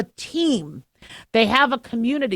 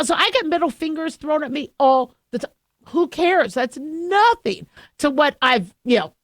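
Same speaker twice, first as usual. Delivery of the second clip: ordinary delivery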